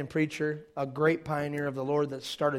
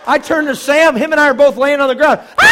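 loud, high laughing narration; laughing shout; 12 semitones higher, 19 dB louder than usual. Retold or imitated. Telling congregation he and Sam fell, laughing shout.

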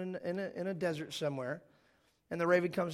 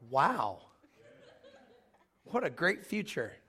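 laughing sarcasm; slower than usual. Real, not acted. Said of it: "laughing aside".

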